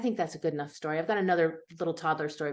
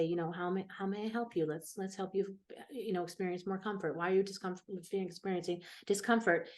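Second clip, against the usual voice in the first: softer, gentle reassurance; soothing; 7 dB quieter than usual. Retold or imitated. Therapist soothing a crying mother, soft and gentle. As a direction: speak softly to a crying mother.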